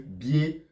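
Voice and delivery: "bier" set apart as a single syllable. Shown as a demonstration. Teacher counting syllables for learners, "bier" said separately. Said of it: "deux syllabes".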